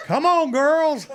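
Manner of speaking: high, slow, coaxing call to the ducks; slow seductive call. Pretend. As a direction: coax the ducks in, slow and sultry. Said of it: "that slow, seductive call".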